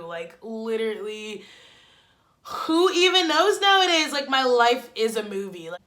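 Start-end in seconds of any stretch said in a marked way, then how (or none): 2.4-4.1 mock crying. Real, not acted. Mock despair about life.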